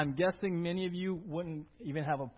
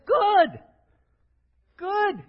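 much higher, louder shout of the answer; call and response shout; 11 semitones higher, 10 dB louder than usual. Real, not acted. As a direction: belt it out to the congregation.

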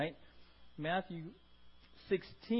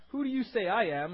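pointed question; 3 semitones higher, 6 dB louder than usual. Pretend. Jesus asking, re-voiced louder.

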